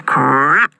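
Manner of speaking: drawn-up imitation of a snapping chair; sudden crack. A narrator's reading. Storyteller imitating a breaking chair, cracking sound. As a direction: make the word crack like breaking wood.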